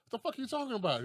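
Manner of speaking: mock disbelief at what was said; mock bafflement. Friends answer his odd saying, mock baffled.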